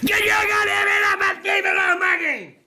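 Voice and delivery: irritated yell at his son; angry shout. Real, not acted. Yelling at son to back off.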